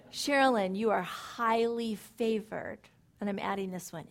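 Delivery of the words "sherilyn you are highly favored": mirror declaration. Shown as a demonstration. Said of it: "looking in a mirror and saying".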